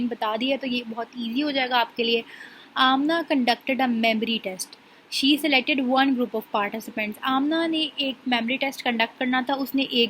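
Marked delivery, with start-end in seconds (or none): 2.8-7.2 reading a definition aloud. Shown as a demonstration. Teacher reads out example scenario.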